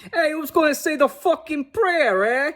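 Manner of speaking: high laughing Peppermint Patty voice; high mock girl voice with a laugh. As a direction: squeak it out through a laugh.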